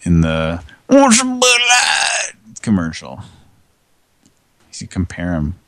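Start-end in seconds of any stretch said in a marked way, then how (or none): 0.9-2.3 high, slow eighties bimbo speak; breathy-free airhead drawl up high. Retold or imitated. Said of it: "they've got the bimbo speak really down".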